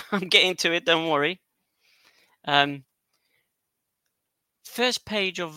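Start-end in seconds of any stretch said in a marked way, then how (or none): 0.1-1.4 quick, chuckling reassurance; amused, rushed promise; laughing. Real, not acted. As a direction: laugh it off and hurry on.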